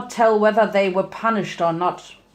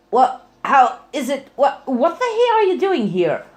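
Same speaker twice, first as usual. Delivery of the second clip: startled, higher and louder stammer; flustered stammering, higher than usual; stuttering; 5 semitones higher, 4 dB louder than usual. Acted. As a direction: trip over the words in shock. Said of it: "Applejack stuttered".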